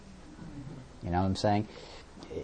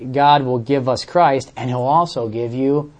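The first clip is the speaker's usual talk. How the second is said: mock quote; 5 dB louder, slower than usual. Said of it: "Like we're saying".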